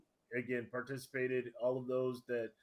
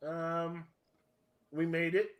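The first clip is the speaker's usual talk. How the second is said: ice in mouth. Real, not acted. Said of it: "Try not talking with ice in your mouth".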